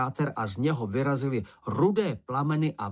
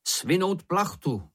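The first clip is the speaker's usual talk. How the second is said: higher, slower command across the boat; raised slow call of an order; 7 semitones higher, slower than usual. A narrator's reading. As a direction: call it out to the others, slowly. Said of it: "zavolal Šňupálek".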